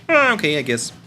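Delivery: Kermit. Pretend. Kermit answering whether he is ready, reluctant puppet voice. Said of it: "Kermit, you ready?".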